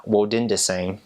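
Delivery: careful Twi pronunciation of "Wodindeseng"; Twi phrase. Shown as a demonstration. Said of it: "another common one is".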